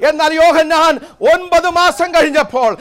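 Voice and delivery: high, loud exhortation with slow, punched English refrains; full-force Pentecostal preaching. Real, not acted. Preacher urging believers to trust God's word, impassioned preaching. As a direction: cry it out to the congregation, dropping on the hallelujahs.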